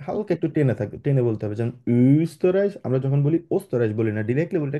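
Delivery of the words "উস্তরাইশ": উস্তরাইশ with the first vowel drawn out, not clipped; stretched u. Shown as a demonstration. Teacher modelling Straße for the class, vowel stretched. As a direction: lengthen the opening উ of উস্তরাইশ. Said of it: "একটু টেনে বলি".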